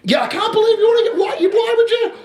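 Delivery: hammed-up disbelief, voice shooting up and quickening; mock outraged Daniel. Daniel phoning the manager in mock outrage, squealing disbelief.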